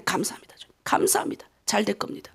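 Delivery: very soft, low, near-whispered self-encouragement; whispered prayer. Retold or imitated. Pastor retelling prayer while lying discouraged, whispered. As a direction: let the prayer sink almost into breath.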